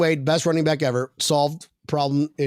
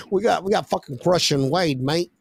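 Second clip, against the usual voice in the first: hint of a joke British accent; lightly put-on British "mate"; 3 semitones higher than usual. Podcaster slipping into an inside joke, mock British accent. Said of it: "my British accent".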